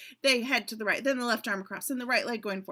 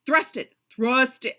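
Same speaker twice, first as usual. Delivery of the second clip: loud, forceful rehearsal command; barked dance order; 3 semitones higher, 10 dB louder than usual. Acted. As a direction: shout the move at the dancer. Choreographer urging the dancer.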